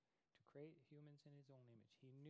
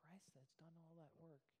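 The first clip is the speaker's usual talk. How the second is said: whispered; 6 dB quieter than usual. Acted. Hushed emphasis in sermon.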